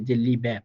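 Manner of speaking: লিবে ending in a light, short e. Shown as a demonstration. Teacher to students, modelling the native লিবে ending. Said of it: "আপনি এ বলার জন্য একটু try করেন".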